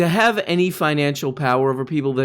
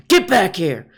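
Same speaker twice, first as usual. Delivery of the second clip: mock bossy Tim Pool. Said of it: "Imagine Tim Pool being your boss".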